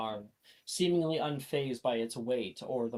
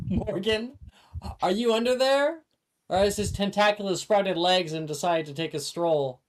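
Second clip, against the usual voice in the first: smirking; 5 semitones higher, 5 dB louder than usual. Acted. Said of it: "a smirk plays on her lips".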